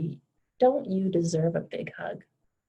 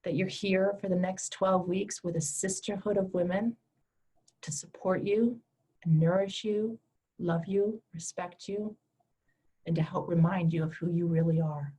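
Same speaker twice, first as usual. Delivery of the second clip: guided meditation. Acted. Leads a guided heart meditation.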